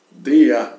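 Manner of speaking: "D A" as "dea", final R turned to A. Shown as a demonstration. Teacher showing how der really sounds, R-as-A pronunciation. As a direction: model "D A" ending on an open a. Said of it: "esse R como se fosse uma A".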